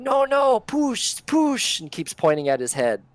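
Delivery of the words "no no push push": high, loud insistent yell; conductor yelling. Acted. Conductor yelling at Hardro, high insistent. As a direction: keep yelling it, pointing at his head. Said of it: "The conductor keeps yelling".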